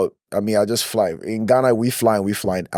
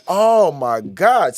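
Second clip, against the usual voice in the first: slow shocked gasp; 5 semitones higher, much slower than usual. Retold or imitated. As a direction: let it out slowly after the hard landing. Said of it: "So I was like".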